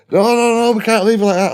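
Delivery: put-on high, loud panicked protest from the girlfriend; frantic girlfriend. Girlfriend refusing to leave the burning house, high panicked protest. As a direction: squeal it out like she won't abandon the house.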